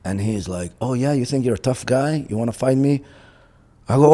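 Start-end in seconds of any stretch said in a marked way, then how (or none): 0.8-3.0 raised-pitch taunt, imitating a bully; mocking challenge. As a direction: goad him into a fight, lightly acted. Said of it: "he's just ridiculing me".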